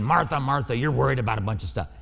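a mild gentle chiding, not angry; Jesus soothing a busy Martha; tender. Shown as a demonstration. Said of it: "These are tender words".

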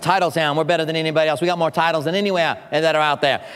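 put-on Boston accent. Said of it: "And then he also said".

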